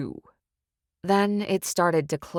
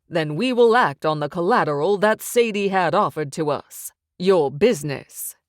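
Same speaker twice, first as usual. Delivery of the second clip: louder, smug loan shark laying down terms; menacing mob boss; 4 dB louder than usual. Acted. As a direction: press the threat with calm confidence. Narrator voices threatening Sykes.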